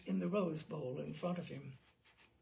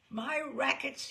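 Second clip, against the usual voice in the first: slow, louder, higher declaration; proud gangster; 5 semitones higher, 4 dB louder, slower than usual. Retold or imitated. Gangster boasting to the reporter, slow and proud. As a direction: proclaim it like a boss. Gangster proclaiming about his rackets.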